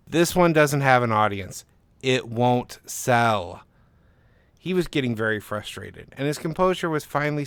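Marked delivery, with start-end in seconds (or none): 0.1-3.6 slow, final "It won't sell"; flat refusal. Acted. Agent shuts the pitch down, slow and firm. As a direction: lay it down slowly like a verdict.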